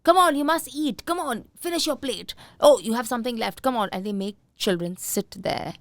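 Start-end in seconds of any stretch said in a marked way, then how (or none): 0.0-3.9 higher, louder coaxing to clean the plate; imitating a pushy parent at the table. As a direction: nag the child to eat up. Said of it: "what do parents say?".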